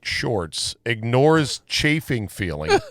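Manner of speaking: slow, measured headline read; mock news headline. Host reading an odd news item to co-hosts, mock newsreader. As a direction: read it like a wire story.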